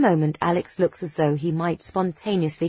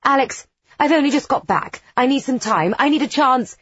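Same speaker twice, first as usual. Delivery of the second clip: stunned pleading; 8 semitones higher, 4 dB louder than usual. A narrator's reading. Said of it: "Demeter seems a little stunned".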